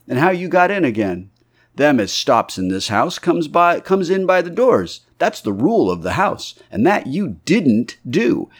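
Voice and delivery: a lightly voiced, rising scolding landlady; country landlady giving a lodger a piece of her mind; indignant landlady. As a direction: press him hard, building in indignation. Landlady scolds the stranger at length.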